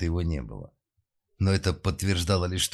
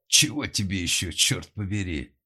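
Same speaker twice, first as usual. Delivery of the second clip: exclaiming; 3 semitones higher, 3 dB louder than usual. A narrator's reading. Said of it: "воскликнул Денис Андреевич".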